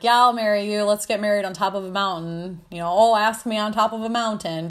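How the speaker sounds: lightly mocking, joking proposal; mildly sarcastic retelling. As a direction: toss it off as a running joke. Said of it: "Just being really sarcastic".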